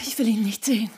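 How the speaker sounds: whispered, pleading and insistent; urgent whisper. Acted. Woman whispering urgently to wake Jimmy, whispered. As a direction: hiss it urgently in the dark. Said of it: "Eine eindringlich flüsternde Frauenstimme".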